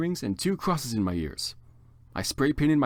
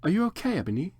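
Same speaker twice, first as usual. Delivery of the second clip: gentle; 7 semitones higher, faster than usual. Acted. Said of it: "Draco asked me gently".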